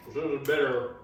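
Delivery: talking through a mouthful of cucumber; words round a bite of food; mouth full. Real, not acted. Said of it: "talking my mouth full".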